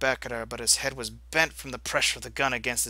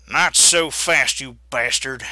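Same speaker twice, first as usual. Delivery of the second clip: growl; 7 dB louder, slower than usual. Acted. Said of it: "Josiah growled".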